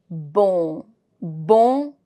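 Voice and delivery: Bon with a nasal vowel and silent N. Shown as a demonstration. Teacher models the French word, with a nasal sound. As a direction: say "Bon" through the nose, no hard N. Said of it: "it's a nasal sound".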